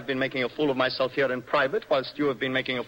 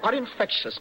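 laughing; 7 semitones higher than usual. Acted. Laughing at Morel.

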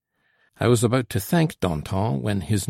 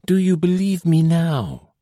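higher, louder anxious plea; deep anxiety; 9 semitones higher, 5 dB louder than usual. A narrator's reading. Girl begs the patrol to believe her, anxious. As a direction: press them anxiously for belief. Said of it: "in tones of deep anxiety".

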